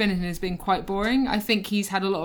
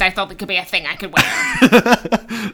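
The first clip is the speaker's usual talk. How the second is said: laughing protest; 6 dB louder than usual. Real, not acted. Laughing defence of silly purchase.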